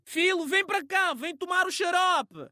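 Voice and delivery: put-on high, sweet call to the child; gentle Portuguese mother. Portuguese mother sweetly calling her son for syrup. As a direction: coax the son kindly to come. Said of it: "a mãe portuguesa que tá a chamar o filho".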